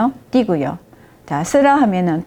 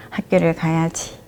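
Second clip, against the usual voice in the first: bright and gentle; 3 semitones lower, 4 dB quieter than usual. Retold or imitated. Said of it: "밝게, 상냥하게".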